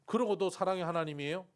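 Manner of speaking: rising, indignant protest to God; arguing with God. Retold or imitated. Seminarian arguing with God, indignant. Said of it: "하나님 앞에 막 따지는 거예요".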